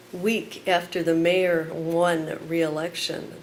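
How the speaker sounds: measured, pointed spoken word; poem performance. Acted. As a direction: let each number land. Performs poem Chicago by Numbers.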